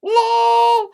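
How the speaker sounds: high loud burst of laughter. Real, not acted. Author laughing at readers after faking the last chapter. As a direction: crack up at your own prank.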